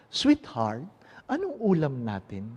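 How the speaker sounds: quiet endearment, no calling out; spoken up close. Acted. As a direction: ask it gently at arm's length. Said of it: "Hindi na ako magsasalita sa malayo".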